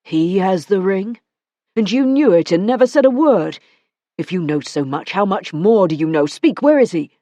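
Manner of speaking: man outraged by her news; Matthew, incredulous. Acted. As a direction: throw her words back at her. Matthew demanding.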